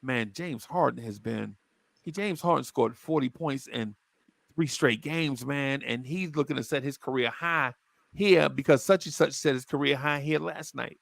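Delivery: a coach quietly needling a player; coaxing coach. Retold or imitated. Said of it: "he'd be like".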